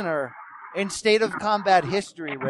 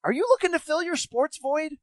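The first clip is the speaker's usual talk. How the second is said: upbeat radio ad voice; ad read. Acted. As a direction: sell it like a podcast promo. Podcast ad read.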